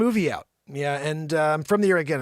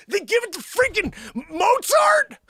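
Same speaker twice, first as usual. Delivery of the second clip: high, slow incredulous yell; hammed-up indignant shouting; outraged shout; 13 semitones higher, 4 dB louder than usual. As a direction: drag it out in mock outrage. Outraged that credit was stolen.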